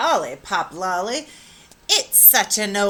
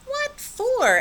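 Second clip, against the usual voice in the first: surprised. A narrator's reading. Mother asks surprised.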